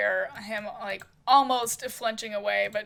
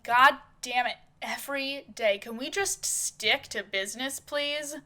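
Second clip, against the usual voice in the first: exasperated; 3 semitones higher than usual. Acted. Fed up with Marissa's needling.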